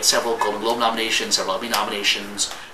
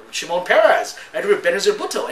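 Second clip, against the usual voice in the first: retold excitement; 9 semitones higher, 6 dB louder than usual. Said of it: "I was like".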